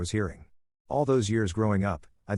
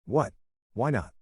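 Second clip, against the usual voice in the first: mildly surprised short questions; understated surprise; 4 semitones higher than usual. A narrator's reading. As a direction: ask it with a touch of surprise.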